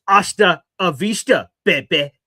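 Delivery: imitating a movie tough guy, loud; mock Terminator send-off; action-hero farewell. Brother's movie-hero farewell quote.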